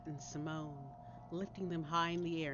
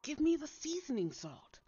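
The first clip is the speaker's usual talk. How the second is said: rising, louder panicked call for the salt; urgent shout; 7 semitones higher, 5 dB louder than usual. Acted. To her friend during the monster attack, rising urgent shout. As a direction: yell it to her across the chaos, getting higher.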